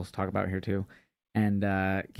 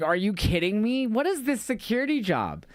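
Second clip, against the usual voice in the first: much higher, exasperated disbelief; incredulous outrage; 11 semitones higher than usual. Retold or imitated. Ranting about wrestling security, high incredulous outrage. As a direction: throw it up high like you can't believe it. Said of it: "I was like".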